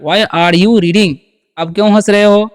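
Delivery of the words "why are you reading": very slow, word by word; slow teaching model. Shown as a demonstration. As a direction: spell it out slowly for learners. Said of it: "तो क्या बोलिएगा?". (बहुत धीरे, शब्द-शब्द करके)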